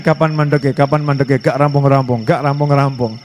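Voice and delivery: low, grumbling when-will-it-end; mock impatience. Preacher acting a bored worshipper waiting for the end, grumbling. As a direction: sound fed up and restless.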